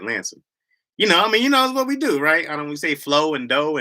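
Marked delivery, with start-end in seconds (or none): 0.0-0.4 "Lansing" with the final g swallowed; Midwest Lansing. Shown as a demonstration. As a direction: say "Lansing" lazily, no G. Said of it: "but I'm like".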